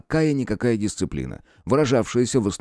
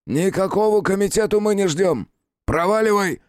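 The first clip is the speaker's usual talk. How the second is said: higher, rough angry snarl; growled; 10 semitones higher than usual. Acted. Chief snarls at the visitor to get lost, angry. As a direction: growl him away from the door. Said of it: "прорычал старшой".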